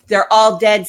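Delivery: sudden anguished shout; distressed cry. Acted. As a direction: blurt it out in despair. Child pleading, friends dead.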